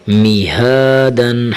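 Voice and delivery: می ہا دن with a full, heavy ہ sound, read slowly; thick h. Shown as a demonstration. Teacher demonstrating a heavy ہ to pupils. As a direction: make the ہ in می ہا دن thick. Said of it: "ہا کو موٹا کرنا ہے".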